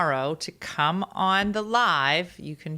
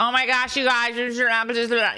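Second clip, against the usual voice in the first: lazy, mushy, pitched-up marbles-in-mouth mumble; 5 semitones higher, 4 dB louder than usual. Imitating how videos from age fifteen sounded: imitating own old mumbled voice. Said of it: "like I have, like, marbles in my mouth".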